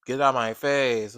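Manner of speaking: slow, understated nonchalant brush-off; mild calm crash out. Retold or imitated. Mimicking Qatari's calm crash-out tone, slow and mild. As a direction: say it lazily, barely upset. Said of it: "his tone was giving".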